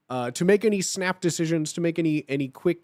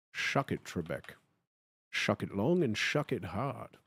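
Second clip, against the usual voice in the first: much lower, much softer Scottish growl; Sean Connery; 8 semitones lower, 10 dB quieter than usual. Pretend. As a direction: taunt Trebek in a Scottish accent. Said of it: "Sean Connery".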